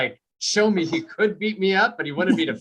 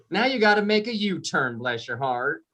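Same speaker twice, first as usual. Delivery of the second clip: put-on country Georgia accent. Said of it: "the directions would be all country".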